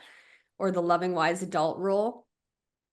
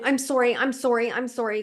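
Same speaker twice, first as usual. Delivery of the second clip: mock repeated apology; 4 semitones higher than usual. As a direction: rattle off sorry to be comforted. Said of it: "without just saying".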